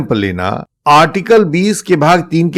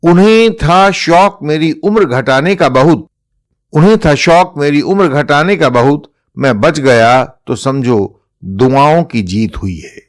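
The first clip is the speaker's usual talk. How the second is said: reciting a couplet. Shown as a demonstration. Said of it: "Bashir Badr का एक शेर है".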